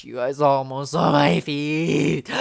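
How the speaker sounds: drawn-out, alarmed outburst to the viewers; real startled cry, stretched at the end; startled exclamation. Real, not acted. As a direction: exclaim it as if narrowly caught out. Sudden mishap on camera, then gasp.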